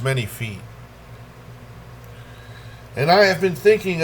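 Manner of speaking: deliberate verse recital, line by line with pauses; swelling phrases that settle at line ends; poetry reading. Acted. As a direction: read it as a poem, lingering on key words. Reads second poem aloud.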